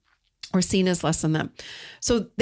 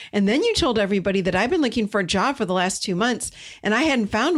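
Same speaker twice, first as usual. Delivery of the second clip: defensive partner; 2 semitones higher than usual. Acted. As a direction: throw the blame back, getting more and more worked up. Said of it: "your partner says something like".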